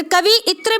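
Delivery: "कवि इत्र" split as kavi-itra; wrong form "कवि इत्र", kavi then itra; mispronounced word. Shown as a demonstration. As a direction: say "कवि इत्र" with an i ending the first part. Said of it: "ये भी गलत है".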